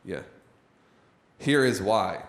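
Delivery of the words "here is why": Here is said as two full words, falling firmly on why; emphatic here is why. Shown as a demonstration. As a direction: set the phrase apart, look at me. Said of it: "Look at it".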